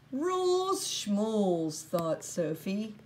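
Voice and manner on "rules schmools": slow, dismissive sneer at the rules; mocking scorn. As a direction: brush the rules off with contempt. Sophie's scornful thought.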